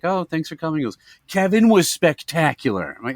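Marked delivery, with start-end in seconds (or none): 0.0-0.8 lightly raised, polite sign-off; a hint of a higher hostess voice; imitating hostess. Hostess seeing diners out, lightly imitated politeness. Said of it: "the hostess is like". 1.3-3.0 slow, raised, enthralled praise; mock gushing. Wife praising Kevin to the hostess, mock gushing.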